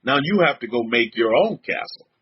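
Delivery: father asserting his house rule, low; a hint of a stern father; imitating stern father. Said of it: "He's like".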